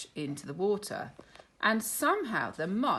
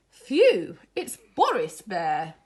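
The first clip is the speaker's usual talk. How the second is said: relieved; 10 dB louder, slower than usual. Acted. Relieved cry.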